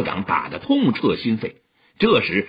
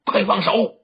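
pained urgent plea, pitched up; 5 semitones higher than usual. A narrator's reading. Old man with wrist crushed, urgently crying out in pain. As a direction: cry out to be released at once. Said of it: "急道".

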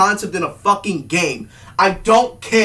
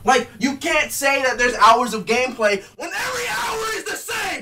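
angry yell; 3 semitones higher, 3 dB quieter than usual. Real, not acted. Yelling rant.

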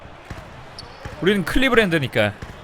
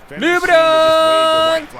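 long stretched cheering shout, high and loud; drawn-out shout; 10 semitones higher, 5 dB louder, much slower than usual. Real, not acted. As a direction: hold the name out like a stadium cheer. Cheering a dunk in play.

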